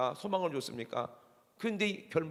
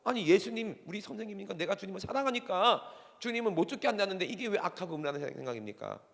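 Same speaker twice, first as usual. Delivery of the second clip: aggrieved; 5 semitones higher than usual. Acted. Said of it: "베드로 억울하죠".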